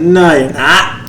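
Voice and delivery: lightly imitated New York accent. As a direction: mimic a New Yorker's accent as he refuses. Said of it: "in his New York accent".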